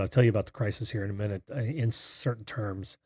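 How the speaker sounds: airy, breathy speaking voice; talking with a lot of breath. Real, not acted. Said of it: "I sound so breathy tonight".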